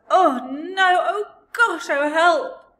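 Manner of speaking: loud, high wail of disgust; frantic, high-pitched revulsion; horrified splutter. A narrator's reading. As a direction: cry out as if poisoned. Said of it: "she spluttered".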